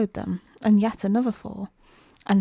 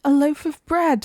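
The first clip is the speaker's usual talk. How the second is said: hungry walrus; 6 semitones higher, 5 dB louder than usual. A narrator's reading. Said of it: "the walrus said".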